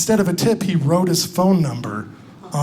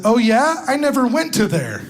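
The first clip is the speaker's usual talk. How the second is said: put-on higher-pitched naive Southern girl; Southern accent; 5 semitones higher, 4 dB quieter than usual. Comedian voices waitress texting a rude customer, mock Southern accent. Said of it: "a pretty Southern girl like you".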